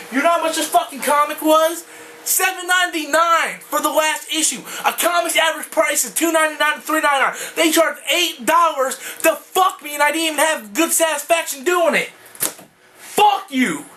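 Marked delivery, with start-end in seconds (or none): 0.1-10.0 higher, shouting outrage at the price; angry rant. Real, not acted. Fan ranting to viewers about comic prices, shouting angrily. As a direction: yell it out, fed up with Marvel.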